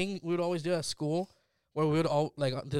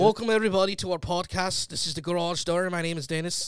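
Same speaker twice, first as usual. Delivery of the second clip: second go at a Scottish-Irish accent; 3 semitones higher, 4 dB louder than usual. Shown as a demonstration. Host redoing the podcast intro on request, Scottish-Irish accent. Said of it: "I think it's Scottish".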